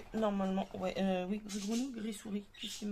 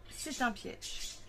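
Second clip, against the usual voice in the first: slow, breathy whisper like a parenthesis; whispered aside; much slower than usual. Shown as a demonstration. Crafter whispering the bracketed part of her quote. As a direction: drop to a hushed whisper for the bracketed words.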